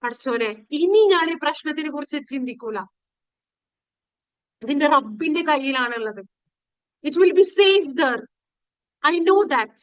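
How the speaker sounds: ordinary delivery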